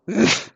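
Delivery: scornful puff of air; short snorted pff; boar's dismissive huff. A narrator's reading. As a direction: huff it out like a grumpy boar. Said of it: "machte es vom Wildschwein".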